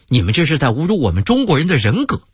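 fast, offended protest; indignant. Acted. Hotel waiter protests to the American guest, indignant. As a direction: snap back at an insult, quickly. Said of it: "反而很生气".

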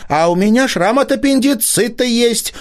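high, eager call-out. A narrator's reading. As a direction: blurt it out eagerly. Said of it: "выкрикнула Полина Владимирова".

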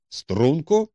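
stern command. A narrator's reading. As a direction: call them sternly to attention. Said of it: "суворо вигукнув Холмс".

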